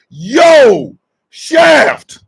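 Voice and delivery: loud call to Shaft. Acted. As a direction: hail him by name. Calling out to Shaft.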